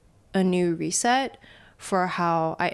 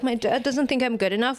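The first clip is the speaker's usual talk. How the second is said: slightly small, higher self-doubting voice; tiny inner voice; 5 semitones higher than usual. Retold or imitated. Voicing the tiny voice in our head, mildly self-doubting. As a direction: lightly voice a nagging inner doubt. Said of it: "that tiny voice in our head".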